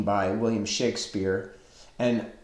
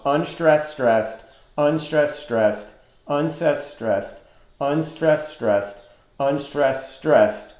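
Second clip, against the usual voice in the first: "unstressed, stressed" recited as an even alternating beat; "unstressed, stressed" repeated in steady rhythm; repeating metrical pattern; 2 semitones higher, slower than usual. Shown as a demonstration. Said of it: "there is a repeating pattern".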